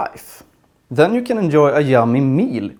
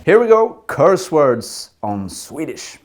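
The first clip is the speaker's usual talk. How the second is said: excited; 2 semitones higher than usual. Acted. Teasing announcement of curse words.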